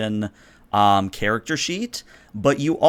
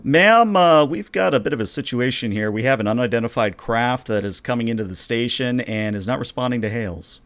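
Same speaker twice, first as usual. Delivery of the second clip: officer's report. Acted. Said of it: "Lieutenant Frakes reports".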